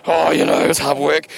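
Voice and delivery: mock-tired sigh of a spent athlete; weary finisher impression. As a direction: poke fun at the tired ones with a mild weary voice. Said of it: "this is my personation".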